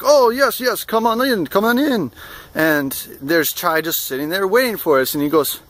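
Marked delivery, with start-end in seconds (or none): 0.0-2.1 lightly imitated eager host, raised pitch; uncle's welcome. Shop owner waving guests inside, lightly voiced eager welcome. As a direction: usher them in with mock effusive hospitality. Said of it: "he's like".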